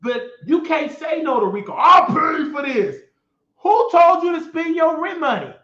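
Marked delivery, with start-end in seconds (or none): 1.7-3.0 mock Rico. Mimicking Rico offering to pay. 3.6-5.5 high, loud demand; scolding. Real, not acted. Scolding Rico for spending his rent money, loud and high.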